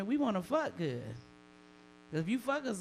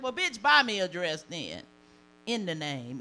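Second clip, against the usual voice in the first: sassy comeback; 6 dB louder than usual. Retold or imitated. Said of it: "I was like".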